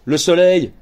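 ordinary delivery, nothing marked

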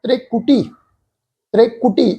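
ਤ੍ਰਿਕੁਟੀ as "tre-kutee", short e; soft short vowel. Shown as a demonstration. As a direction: begin ਤ੍ਰਿਕੁਟੀ with a light "tre". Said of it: "ਇਸੇ ਤਰ੍ਹਾਂ ਪਾਠ". (ਤ੍ਰਿਕੁਟੀ, "ਤ੍ਰੇ" ਪੋਲਾ ਰੱਖ ਕੇ)

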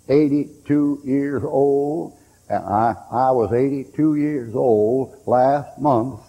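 each word drawn out, unhurried; slow feeble testimony. Retold or imitated. Old man testifying to the meeting, slow and frail. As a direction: lean on eighty-two, slowly.

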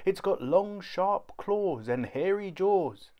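very high child voice, faked panic; a small boy pretending a monster will eat him; little boy's fake alarm. A narrator's reading. Kipper fakes monster fright to Mum, very high.

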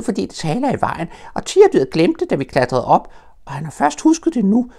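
put-on very high, loud eager child voice; a small child thrilled to be stuck high up; excited little Roo. Roo chatters down to Pooh and Piglet, very high and eager. Roo explains, voicing Tigger.

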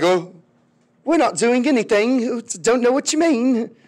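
mock-innocent denial; feigned innocence. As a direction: play dumb when accused, pitch lifted. British play innocent when accused.

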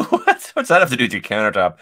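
high, loud, rapid and laughing; laughing disbelief. Real, not acted. Laughs at absurd quiz question.

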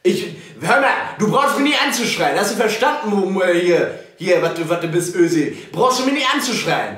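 laut, gereizt zurückbrüllen; angry yelling. Real, not acted. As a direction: fahr den Anrufer laut an. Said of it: "Sie brauchen nicht schreien hier". (laut und gereizt zurückbrüllen)

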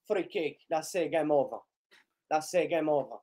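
quiet, deflated murmur; resigned. Real, not acted. Fan seeing the game is over, resigned. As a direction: let the hope drop out.

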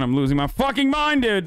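cracking up at the stuck horse; exasperated outburst. Real, not acted. Gamer stuck on a mountain with his horse, exasperated high-pitched outburst.

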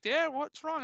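high-pitched imitation of a kid; mock daughter voice. Daughter calling back to dad.

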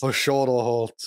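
put-on whiny little kid voice; slow babyish whine. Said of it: "we can't be doing baby voice".

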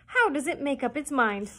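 crying out. A narrator's reading. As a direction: scoff in a loud high duck voice. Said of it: "cried the duck".

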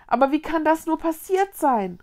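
high, worked-up bewilderment; agitated question. A narrator's reading. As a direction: ask it in a fluster. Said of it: "wuschelte sich aufgeregt".

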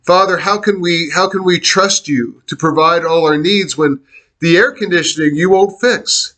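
a hint of a whiny grumble at God; complaining prayer. Retelling how he complained to God, mildly whiny. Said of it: "I was really complaining to God".

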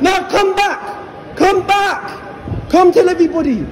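high, drawn-out call; calling after. Real, not acted. Calling a walking-away guard back to face the crowd.

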